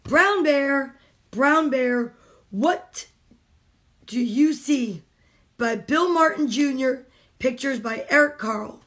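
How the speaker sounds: slow, rhythmic picture-book reading; reading aloud to children. Acted. Mom reading a picture book to kids on a stream, storytime reading. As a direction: read it like storytime for little ones.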